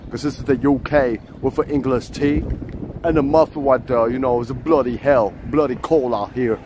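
hammed-up London accent; mock British accent. Pretending to be from the UK, mock British accent.

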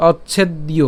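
"অচ্ছেদ্য" as och-chhed-iyo; "অচ্ছেদ্য" with an audible iyo ending; pronunciation demo. Shown as a demonstration. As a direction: carefully model "অচ্ছেদ্য" part by part. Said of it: "আমরা উচ্চারণ করব কীভাবে".

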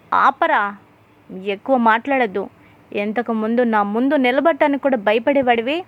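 a lightly voiced stern father telling off his son; shouting angrily. Father scolding son over the keys, mild angry shout. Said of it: "అని గట్టిగా అరవడంతో".

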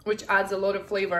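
talking through a mouthful of food; mouth full. Real, not acted. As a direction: speak around a bite of sandwich. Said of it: "I'm talking with my mouth full".

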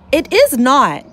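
quarrel retort. Acted. Cats quarrel over stew.

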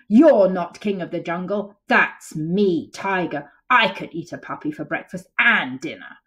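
loud, cross tiger voice; angry tiger. Acted. Tiger angrily contradicts Lion, cross and loud. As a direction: growl your claim as the angry tiger.

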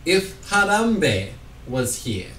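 slow poem in a hammed-up Russian accent; mock Russian accent, drawn out. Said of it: "Why are you Russian?".

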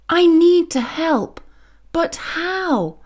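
high, small worried bee voice; a child's fretful little voice; little bee Fuzby. A narrator's reading. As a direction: wonder it aloud like a tiny worried bee.

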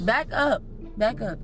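real warning to back off. Real, not acted. Warning off someone too close.

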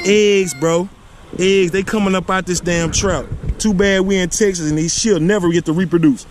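high, excited wonder; amazed exclaiming. Real, not acted. Angler marveling at eggs from his trout, amazed.

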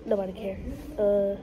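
congested, blocked nose voice; stuffed-up nose. Real, not acted. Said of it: "I sound stuffed up".

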